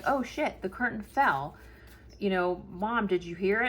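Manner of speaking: a lightly voiced son, startled; imitating son. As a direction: toss it off like the son should have. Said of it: "You could have been like".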